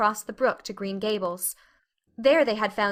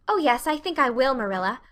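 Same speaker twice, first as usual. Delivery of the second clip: optimistically; 3 semitones higher than usual. Acted. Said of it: "returned Anne optimistically".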